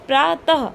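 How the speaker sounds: प्रातः closing on "tah"; visarga demonstration. Shown as a demonstration. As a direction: let the ः in प्रातः sound as h. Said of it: "हा की आ रही है".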